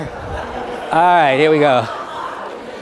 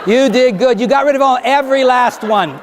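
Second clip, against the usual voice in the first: usual speaking voice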